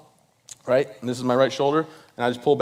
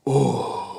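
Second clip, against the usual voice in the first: crowd gasp. Retold or imitated. Twenty thousand people react to fall.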